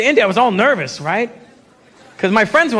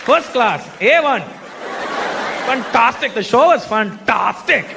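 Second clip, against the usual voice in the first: put-on Indian-accented praise, each phrase punched; emphatic Indian accent; slower than usual. Street fan praising the show, emphatic Indian accent. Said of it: "so emphatic with their compliments".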